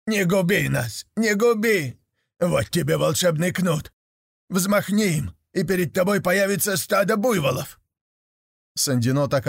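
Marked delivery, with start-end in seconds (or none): 0.1-7.8 lightly voiced imploring devils; pleading devils. A narrator's reading. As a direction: beg for mercy as little devils. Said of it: "стали молить".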